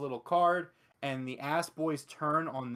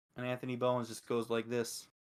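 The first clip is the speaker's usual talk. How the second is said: ordinary talk, nothing marked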